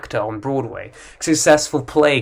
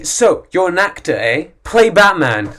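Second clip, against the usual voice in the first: mock teasing, a bit higher; pushy stranger; 4 semitones higher than usual. Imagined stranger pestering an actor, mild mocking tone. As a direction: needle the actor playfully. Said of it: "you never say".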